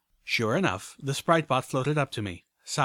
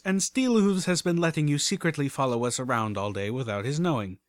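darkly; 3 semitones higher than usual. Acted. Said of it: "I said darkly".

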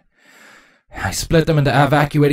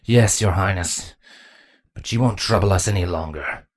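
touch of venom. Acted. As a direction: answer with a hint of venom. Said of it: "Venom could almost be heard in his voice".

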